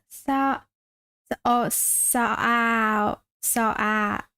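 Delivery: "Sou-" broken into drawn-out "ah" and gliding vowel; sounding out the vowel. Shown as a demonstration. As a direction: stretch out the vowel in "Sou-", piece by piece. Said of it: "There's a ah and the uh sound in it".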